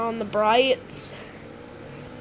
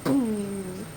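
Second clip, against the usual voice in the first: imitated boom; 2 semitones lower than usual. Shown as a demonstration. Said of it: "like, though".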